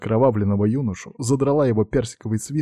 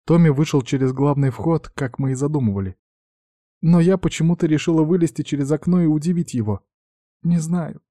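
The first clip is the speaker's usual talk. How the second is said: put-on higher girlish voice, shaken and sniffling; a frightened girl recounting the attack; tearful young heiress; 6 semitones higher than usual. Young girl's tearful retelling. (испуганная девушка, голос выше, со всхлипами)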